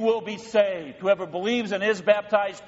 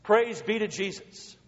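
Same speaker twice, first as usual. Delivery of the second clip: leading a praise. Real, not acted. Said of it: "Say it with me".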